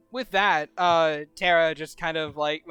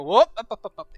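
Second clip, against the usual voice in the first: startled whoop as the elbow slips, then insisting okay; tipsy slip; faster than usual. Acted. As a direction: catch yourself slipping, brush it off. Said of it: "elbow slip off".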